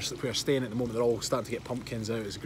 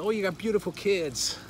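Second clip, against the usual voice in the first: higher-pitched attempt at an American lady's accent; best American accent; 5 semitones higher than usual. Lady compliments his wife on the children, attempted American accent. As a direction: imitate a friendly American stranger, lightly accented. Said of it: "that's my best accent".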